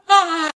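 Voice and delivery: high-pitched "ah" of dismay; high cry. Acted. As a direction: cry out "ah" high, after a small laugh. Reacting after things go wrong.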